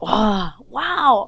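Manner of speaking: loud wows climbing high; excited wonder. Retold or imitated. Woman acting out her hungry Bible reading, amazed.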